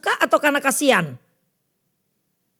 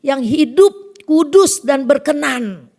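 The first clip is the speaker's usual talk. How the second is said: raised, solemn reciting of the verse, slowing at the end; scripture quote; 4 semitones higher than usual. Acted. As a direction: proclaim the verse of Paul. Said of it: "Rasul Paulus katakan". (membacakan ayat dengan khidmat)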